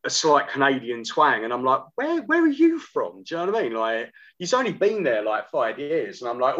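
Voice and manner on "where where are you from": high-pitched, drawn-out incredulous question; mock disbelief. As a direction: pitch leaps up in retold bewilderment. Retold disbelief at brother's new accent.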